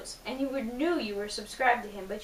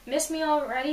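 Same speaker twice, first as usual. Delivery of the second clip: cute, higher-pitched teasing; 4 semitones higher than usual. Acted. Girl texts back the boy, cute and teasing. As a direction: tease cutely, pitched up a little. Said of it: "you replied cutely".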